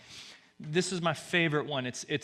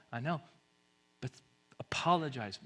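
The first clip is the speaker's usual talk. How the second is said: ordinary delivery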